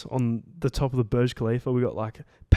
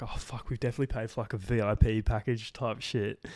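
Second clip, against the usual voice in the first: quiet aside; 5 dB quieter than usual. Retold or imitated. Realising they paid extra.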